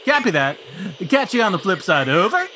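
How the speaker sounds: CB radio sign-off; over walkie talkie. Pretend. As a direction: trucker radio lingo. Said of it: "talking to somebody on a C B radio".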